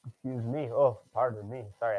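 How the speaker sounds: talking between sips of a drink; drinking while talking. Real, not acted. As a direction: speak around a sip of drink. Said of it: "I'm drinking".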